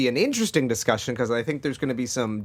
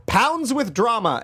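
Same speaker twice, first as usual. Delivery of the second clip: dramatic tagline read; 7 semitones higher, 3 dB louder, slower than usual. Acted. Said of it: "this was the tagline they used".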